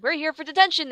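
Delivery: the friends proudly announce themselves; beaming. A narrator's reading. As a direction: beam as you say it. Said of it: "they beamed".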